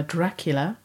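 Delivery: lightly voiced vampire count; a hint of a Transylvanian count; Dracula accent. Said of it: "Oh, very nicely done".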